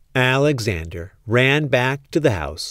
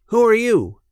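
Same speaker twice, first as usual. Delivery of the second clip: mouse voice; 9 semitones higher, 3 dB louder than usual. Acted. Mouse meets toy mouse.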